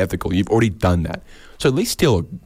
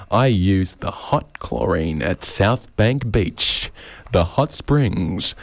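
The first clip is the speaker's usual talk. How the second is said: mock beauty boast; much slower than usual.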